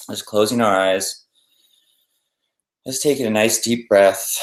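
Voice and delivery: unhurried meditation guidance with long pauses; guided meditation. Acted. Teacher guiding listeners to settle and breathe, guided meditation. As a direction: ease them into stillness, leaving space between instructions.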